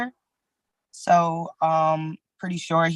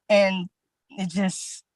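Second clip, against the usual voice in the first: ordinary delivery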